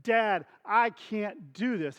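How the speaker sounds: slow, mildly exasperated plea; drawn-out, lightly acted frustration; frustrated son. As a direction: imitate a worn-out son admitting defeat. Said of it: "he can tell the frustration".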